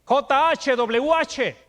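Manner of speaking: each letter spelled out slowly and firmly. Shown as a demonstration. Preacher spelling the tetragrammaton for the congregation, slow and deliberate. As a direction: spell out the sacred name one letter at a time. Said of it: "lo que se nombra el tetragrama sagrado".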